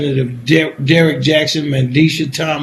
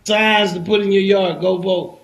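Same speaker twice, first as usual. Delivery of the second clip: radio voice; 4 semitones higher than usual. Pretend. Announcing a parking lot voter rally, playful radio voice. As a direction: put on your event-promo radio voice. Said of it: "Let me get my radio bus".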